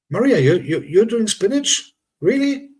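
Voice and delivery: high-pitched disbelieving protest; incredulous. Real, not acted. Teasing disbelief at Maria's spinach.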